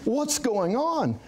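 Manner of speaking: can't believe the nurse hears nothing; incredulous. Retold or imitated. Patient on a ventilator silently asking the nurse, incredulous. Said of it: "And I'm like".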